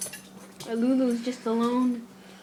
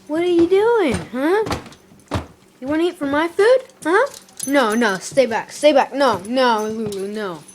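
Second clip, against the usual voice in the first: scolding the dog; 2 semitones higher, 5 dB louder than usual. Real, not acted. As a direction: shoo the dog back from your food. Talking to dog, shooing it off.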